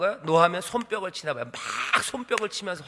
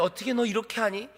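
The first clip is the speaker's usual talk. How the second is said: higher, mildly whining protest; slightly whiny; 4 semitones higher than usual. Acted. Balak complaining to Balaam, slightly whiny. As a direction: plead with a little whine. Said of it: "약간 이건 징징거리는 거예요".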